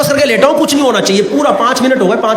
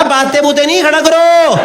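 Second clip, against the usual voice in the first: insistent demand; 5 semitones higher than usual. Retold or imitated. Demanding the doctor.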